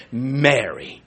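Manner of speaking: low, soft, loving call of her name; Jesus gently speaking Mary's name, soft and tender. Acted. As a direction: say her name so she knows the voice. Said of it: "It's just the way he said it to her".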